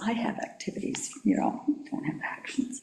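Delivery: soft joking whisper; whispered aside. Real, not acted.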